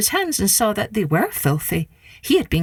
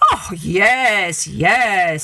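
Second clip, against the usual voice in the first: trickster tale voices; much slower than usual. Acted. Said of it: "said Anansi".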